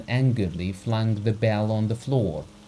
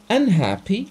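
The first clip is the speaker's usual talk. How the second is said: scornful high rising question; the doctor mocking Abogin's word with contempt; contemptuous echo; 11 semitones higher, 7 dB louder than usual. A narrator's reading. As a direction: sneer the word back at him. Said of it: "with a smile of contempt".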